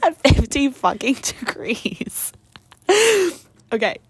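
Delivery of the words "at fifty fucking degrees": slow breathy whisper of the cold; hushed and slow, half laughing. Real, not acted. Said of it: "if our voices are a little shaky".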